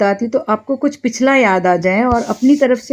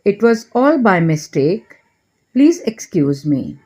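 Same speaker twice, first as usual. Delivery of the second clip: very slow, every word laid out clearly; slow model phrase; much slower than usual. Shown as a demonstration. Teacher slowly models an English apology for Hindi learners. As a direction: say it slowly so learners can repeat it. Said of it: "तो इसके बदले आप कहेंगे".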